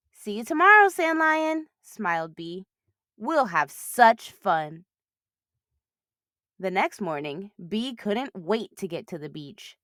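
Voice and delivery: lively storybook reading; animated picture-book narration for kids; reading to children. Acted. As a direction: read it like a bedtime picture book. Reads a picture book aloud.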